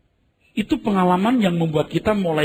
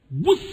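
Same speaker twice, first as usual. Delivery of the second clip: sudden higher whoosh; short swooping noise; imitated plunge; 7 semitones higher than usual. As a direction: mimic a plane dropping. Imitates plane suddenly dropping.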